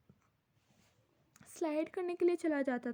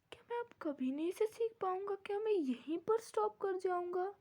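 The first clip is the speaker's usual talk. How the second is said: unhappy lament; 2 semitones higher than usual. Acted. Pupil regrets his last French lesson, mildly sorrowful. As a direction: lament it in a small, pleading voice. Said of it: "मैं कितना दुखी हूँ".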